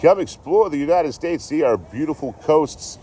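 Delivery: mock ad announcer. Parodying a goofy train-hopping meme video, high slow promo voice. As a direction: sell it like a cheesy travel promo. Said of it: "like, meme video".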